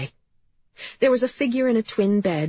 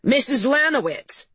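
firm, raised voice, pitched up; said loudly; 8 semitones higher, 3 dB louder than usual. A narrator's reading. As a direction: cut in loudly to get her attention. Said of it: "Cap said loudly".

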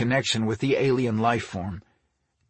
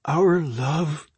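higher-pitched protest; starting to argue; 4 semitones higher than usual. A narrator's reading. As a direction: begin to object, voice lifted. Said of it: "Ore started to argue".

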